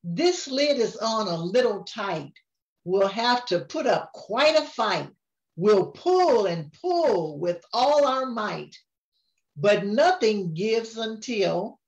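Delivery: sing-song storybook reading; rhyming lines read aloud to a grandchild; reading to a child. A narrator's reading. Grandma reads the picture book to her grandchild, sing-song.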